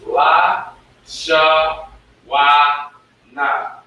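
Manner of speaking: la, sha, wa, na sounded softly; teacher showing the connected sounds; soft letter sounds. Shown as a demonstration. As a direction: model the softened sounds. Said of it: "to a softer sound".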